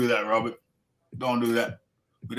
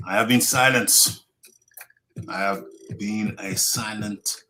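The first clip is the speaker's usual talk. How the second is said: put-on Ugas accent; 2 semitones lower than usual. Reading a fighter's tribute to Spence, muddled accent. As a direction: read it out in a wobbly put-on Spanish-style accent. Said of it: "I thought I was doing Manny, then I thought I was doing Ugas".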